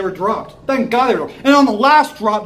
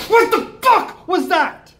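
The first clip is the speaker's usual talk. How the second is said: slow, high, stunned what the fuck; stunned disbelief; 8 semitones higher, slower than usual. Real, not acted. Angry fan reacting to the loss, slow and stunned. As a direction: drag it out in disbelief.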